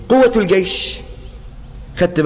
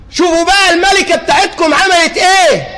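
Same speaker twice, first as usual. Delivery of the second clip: mock complaint; 5 semitones higher than usual. Imagined ant's complaint.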